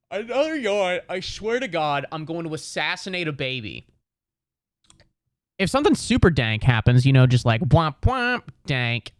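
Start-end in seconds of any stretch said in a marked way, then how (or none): 0.1-3.9 quiet put-on aside.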